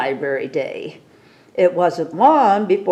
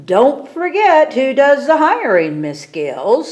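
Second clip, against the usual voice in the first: sharp, louder scolding from the boss; sputtering principal; 7 semitones higher, 4 dB louder than usual. A narrator's reading. Principal warns the dragon librarian, sputtering angrily. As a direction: remind her who's in charge, sputtering. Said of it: "sputtered the principal".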